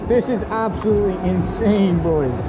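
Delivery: high, loud and thrilled; buzzing with excitement; excited. Real, not acted. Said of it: "I am so stoked".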